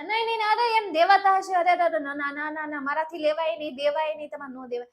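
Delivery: rushed, fading mock protest; hammed-up coy refusal. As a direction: wave off the praise in a hurry. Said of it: "અને પછી એમ કહેતા".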